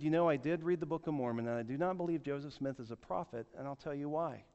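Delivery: measured, courteous firmness; nice, not angry. Retold or imitated. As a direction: disagree politely and evenly. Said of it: "said very nicely, not raising my voice at all".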